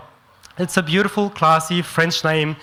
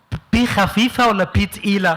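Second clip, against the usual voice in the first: Egyptian uncle voice. Retold or imitated. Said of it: "So he goes".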